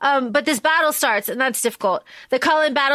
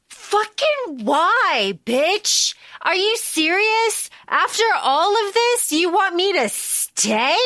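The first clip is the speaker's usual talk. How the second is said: higher, disbelieving, exasperated; incredulous outburst; 5 semitones higher, slower than usual. Acted. Jacob rejecting Bella's plea to stay, exasperated disbelief. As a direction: throw the question back at her in disbelief.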